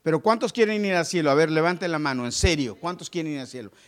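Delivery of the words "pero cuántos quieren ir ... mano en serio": rousing call. Real, not acted. The pastor challenges the church, loud and rousing. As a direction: fire up the congregation. Preacher rallies the congregation.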